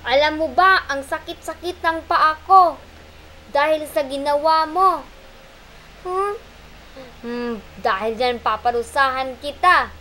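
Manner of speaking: loud, punishing voice; monkey scolds Pagong; angry scolding. Acted. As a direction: berate the turtle.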